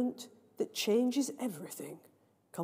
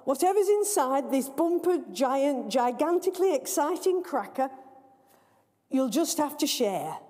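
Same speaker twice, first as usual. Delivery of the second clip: a touch of a grand announcer, higher; lightly voiced master of ceremonies; 3 semitones higher than usual. MC to the children, lightly grand. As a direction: play the MC announcing, pompous.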